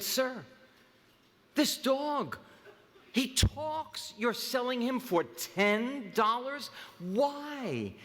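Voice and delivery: high, laughing disbelief; can barely get the words out for giggling; amazed buyer breaking into laughter. Acted. Stunned buyer, laughing in joke.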